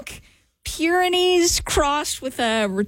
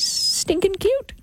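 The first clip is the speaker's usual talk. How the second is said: STINKING pitched up and drawn out; stress on STINKING; 6 semitones higher, slower than usual. Real, not acted. Host telling listeners about the adopted dog, stress on STINKING. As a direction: lean long and high on "stinking". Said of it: "Emphasis on stinking".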